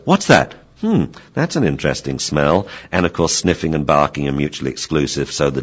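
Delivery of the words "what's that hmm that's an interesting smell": lightly voiced dog, mildly curious; a dog puzzling over a new smell; a hint of an intrigued dog. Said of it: "and the dog says".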